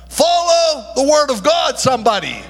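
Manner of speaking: rally the church behind it; preaching shout. Acted. Preacher calling the church to God's word, rising shout.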